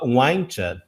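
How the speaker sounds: "Why don't you" run together as "why-ncha"; connected speech. Shown as a demonstration. Teacher showing how people in films say it, blended. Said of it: "a probabilidade da pessoa falar".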